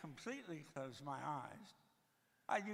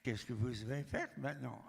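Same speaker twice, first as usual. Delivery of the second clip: French come-on; 4 semitones lower than usual. Retold or imitated. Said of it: "you put a little French with that".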